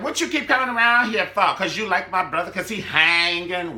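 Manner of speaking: loud, high confrontational yell; Quita confronting. Retold or imitated. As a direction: bark it, slowing on hanging. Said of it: "she like".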